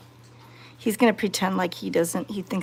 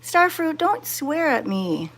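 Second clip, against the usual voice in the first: mock scolding; 6 semitones higher than usual. Scolding the hissing cat.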